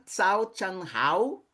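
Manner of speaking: slow, drawn out tsao chan hao, each syllable spaced; Mandarin good morning. Shown as a demonstration. Teacher slowly models tsao chan hao for the class. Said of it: "Bom dia".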